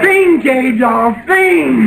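loud, slow, rising plea to think; urgent shout. Acted. Old man urges George to remember, loud and slow.

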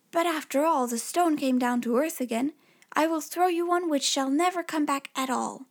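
lightly voiced cocky little tailor; boastful tailor.

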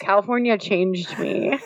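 creaky fry on the words; vocal fry. Real, not acted. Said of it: "do you hear the vocal fry in her voice".

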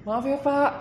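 high-pitched, sincere little apology; smiling apology. Shown as a demonstration. Apologising to an annoyed stranger bumped on the train, smiling apology. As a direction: apologise sweetly with a smile. Dengan, eh, apa, mata yang kayak berbinar-binar.

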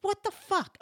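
high, loud mock-alarmed outburst; husband's alarmed cry. Husband running in to find wife collapsed, alarmed cry. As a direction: imitate a shocked husband, pitch leaping up.

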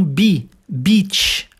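"beach" with a long EE sound, like "bi"; pronunciation demo. Shown as a demonstration. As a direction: model the vowel in "beach" for the learner. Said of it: "pronúncia da palavra beach".

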